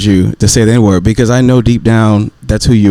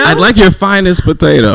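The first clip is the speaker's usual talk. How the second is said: higher, hammed-up fake Irish accent; mock Irish accent; 7 semitones higher than usual. Man playing a restaurant customer for friends, mock Irish accent. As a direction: order grandly in badly faked Irish. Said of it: "your best Irish accent".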